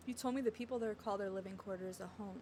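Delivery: quiet, gentle line reading; soft dialogue reading. Acted. Heroine recalling what he told her about home, softly. Reads game dialogue aloud.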